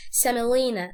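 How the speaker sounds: سملينا with the O reduced to a weak vowel; unclear O. Shown as a demonstration. Teacher showing learners the word, unclear O in سملينا. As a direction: say سملينا without sounding out the O. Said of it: "الاو دي مش هنوضح نطقها".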